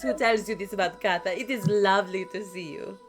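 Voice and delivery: cheerful cat shopkeeper welcoming customers; bright cheerful voice. Acted. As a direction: throw the door open and greet them gladly. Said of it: "a bright, cheerful voice".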